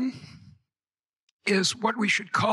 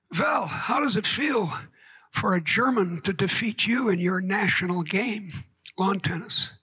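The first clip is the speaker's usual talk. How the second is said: put-on light German accent, V for W at the start; a hint of a German champion teasing the prime minister. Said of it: "in a thick German accent".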